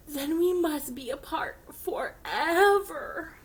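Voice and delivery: slow, hushed tragic whisper; dramatic whisper. Acted. Gerald telling Piggy they must part, slow whisper. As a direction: mourn it in a hammed-up hush.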